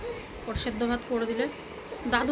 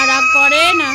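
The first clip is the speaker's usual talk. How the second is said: sing-song soothing; 6 dB louder than usual. Real, not acted. Soothing an angry child.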